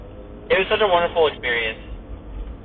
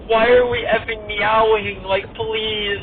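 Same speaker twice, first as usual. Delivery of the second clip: higher-pitched mortified plea; embarrassed protest; 6 semitones higher, slower than usual. Retold or imitated. Teammate Emma objecting to the meowing, embarrassed protest. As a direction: beg the team to stop, embarrassed. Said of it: "Like, so embarrassed".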